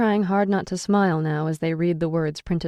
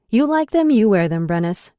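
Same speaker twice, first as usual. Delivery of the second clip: glaring retort; 4 semitones higher, 7 dB louder than usual. A narrator's reading. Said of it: "glaring at them".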